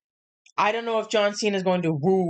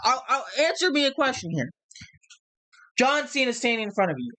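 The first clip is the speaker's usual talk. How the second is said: heated promo; 5 semitones higher than usual. Retold or imitated. Acting out Cody's heated promo.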